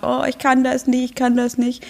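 put-on inner child. Overwhelmed inner child complaining, lightly voiced high whine. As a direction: whine it like an overwhelmed little girl. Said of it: "mein inneres Kind sagt".

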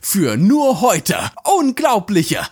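pushy infomercial sales voice, selling hard; teleshopping pitch. Pretend. Host parodies a teleshopping ad, pushy sales pitch. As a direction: hype up the bargain like a TV shopping host. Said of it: "falsches Format".

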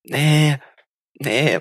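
usual speaking voice

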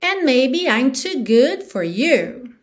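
slow lyric line; song rhythm. Shown as a demonstration. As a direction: recite slowly to the song's beat. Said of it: "te dando no ritmo da música".

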